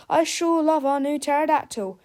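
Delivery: delighted. A narrator's reading. Harold delighted with pet.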